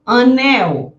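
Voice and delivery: Anunciar said slowly, syllable by syllable; slow model word. Shown as a demonstration. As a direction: stretch out Anunciar for the class. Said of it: "pronunciation demo".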